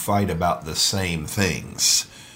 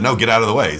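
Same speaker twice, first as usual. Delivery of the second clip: imitating her flat-out no, a bit louder; mock curt refusal; 4 semitones higher, 5 dB louder, faster than usual. Husband retells wife refusing to move aside. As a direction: snap back like an annoyed wife. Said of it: "And she just said".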